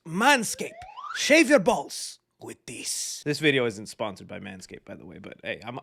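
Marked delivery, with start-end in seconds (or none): 0.1-3.2 mock ad read. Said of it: "But now a word from our sponsors".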